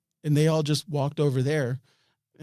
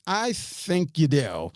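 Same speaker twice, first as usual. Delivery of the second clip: higher, slow, drawn-out retort; pointed retort; 4 semitones higher, slower than usual. Retold or imitated. Retelling a standoff with Mark, slow pointed retort. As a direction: stretch it out to call his bluff. Retold standoff, contradicting him.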